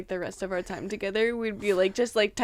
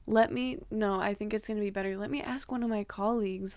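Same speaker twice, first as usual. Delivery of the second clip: mild, softly hesitant play-dumb act; 5 dB quieter than usual. Retold or imitated. Clerk stalling a guest to fetch colleagues, playing dumb. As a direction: act unsure and harmless, fading softer. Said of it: "I try to play dumb".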